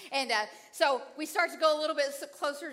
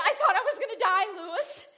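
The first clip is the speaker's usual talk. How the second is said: laughing; 5 semitones higher, 3 dB louder than usual. Retold or imitated. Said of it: "I said".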